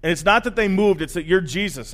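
a touch of amazed panic; mildly freaked out, insistent; freaking out. Acted. Fisherman to Jesus after the huge catch, mildly freaking out. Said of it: "Peter totally freaks out".

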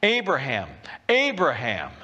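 lightly acted heavenly call, falling on each name. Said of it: "next voice comes from heaven".

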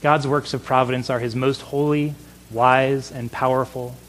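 ordinary talk, nothing marked

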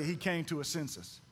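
low, soft throwaway prompt; feed the line quietly for others to repeat; subdued, dropped in pitch and volume; low-key cue. Shown as a demonstration.

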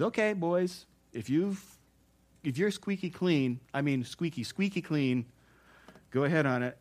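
folksy dare, relaxed; casual Jesus voice. Retold or imitated. Pastor retelling Jesus daring the men, lightly voiced.

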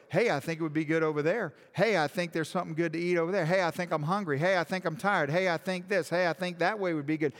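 lightly voiced, fast, carefree sheep chatter; mock sheep. Preacher voicing wandering sheep for congregation, quick and mocking. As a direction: rattle off the sheep's idle wants like a distracted animal. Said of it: "They go".

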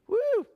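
high excited woo; excited whoop. Real, not acted. Preacher whooping at Jonah's bold answer, excited high cry. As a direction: let out a delighted high whoop.

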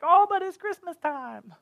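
high mock whine of a disappointed listener; mock protesting listener. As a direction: play the congregation protesting, pitched high. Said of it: "You're like".

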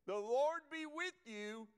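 a preacher's ringing greeting; slow proclaimed greeting. Shown as a demonstration. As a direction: proclaim the Lord be with you slowly. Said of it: "Now watch this".

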